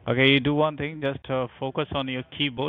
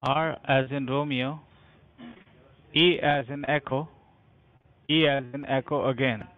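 spelling it out letter by letter; dictating. Real, not acted. Agent spelling with phonetic alphabet.

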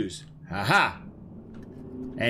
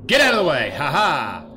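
scream into giggles; 3 semitones higher, 5 dB louder than usual. Real, not acted. Yelling at enemies, then laughing.

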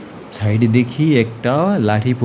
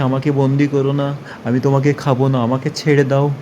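scared ghost begging; 3 semitones higher, faster than usual. Acted. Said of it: "ভূত ভয় পেয়ে গেছে".

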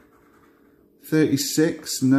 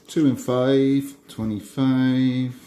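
slow bingo call; bingo caller; 2 semitones higher, slower than usual. Acted. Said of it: "I start doing my bingo calls".

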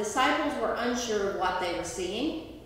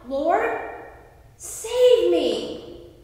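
louder, higher pleading cry; mock cry for help; 6 semitones higher, 5 dB louder, much slower than usual. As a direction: call out like a man sinking in the storm. Sinking Peter cries out to Jesus.

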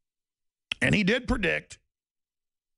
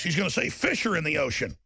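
ordinary delivery

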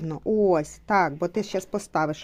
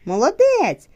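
much higher, louder, fast praise; excited cheer; 8 semitones higher, 5 dB louder than usual. Real, not acted. Mother celebrating Trisha's finished word, loud excited cheer. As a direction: cheer him on at full volume.

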